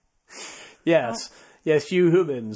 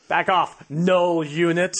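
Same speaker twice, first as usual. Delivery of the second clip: movie quote; 2 semitones higher, 5 dB louder, slower than usual. Retold or imitated. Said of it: "One of the best lines in the movie".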